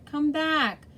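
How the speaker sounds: put-on loud high call of a boy; cry out. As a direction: shout Hey to stop the man. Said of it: "cried Arthur".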